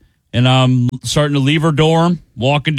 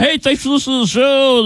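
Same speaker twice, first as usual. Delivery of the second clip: mock radio host; 8 semitones higher than usual. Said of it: "stop and was like".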